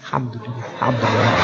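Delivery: soft, low, contented thanks; grateful smiling answer. Shown as a demonstration. Thankful person answering how are you, soft and smiling. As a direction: answer with a wide grateful smile. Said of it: "Bibirnya lebar".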